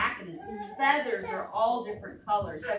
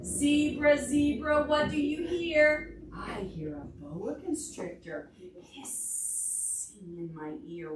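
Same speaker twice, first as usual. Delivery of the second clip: singsong refrain, a bit slow; storybook chant; reading to children; 3 semitones higher, slower than usual. Acted. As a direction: chant the book's refrain for toddlers. Reads picture book to children.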